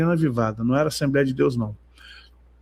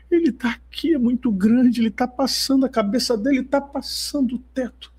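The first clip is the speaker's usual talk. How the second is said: much higher, awestruck mock plea; imitating the crying sister; 7 semitones higher than usual. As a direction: voice her tearful awe, high. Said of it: "ela vem chorando".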